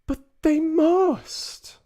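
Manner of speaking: high, loud, drawn-out protest; crying out. Acted. Boy mouse protests to grandmother, a loud high cry. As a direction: refuse to believe it, slowly and loud. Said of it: "I cried".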